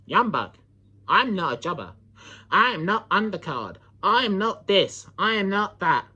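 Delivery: mock nerdy promo voice; Nickman. Rival mimicked protesting he's no jobber, mock nerdy voice. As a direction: lightly imitate a nerdy rival with a cracking voice. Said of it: "nerdy guy that has a voice crack".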